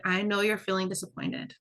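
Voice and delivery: tender parent reassurance; gentle comforting voice. Shown as a demonstration. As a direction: soothe them, dropping to a whisper on hard. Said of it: "say something like".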